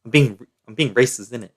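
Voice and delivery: put-on British accent; playful mock British, ending on a tag question. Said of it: "excuse my British accent".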